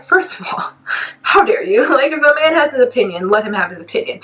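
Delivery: high-pitched mock outrage; indignant retort. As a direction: retell an offended comeback. Acting out her indignant retort.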